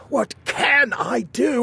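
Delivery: high, slow anguished cry; wringing his hands; despairing king. Acted.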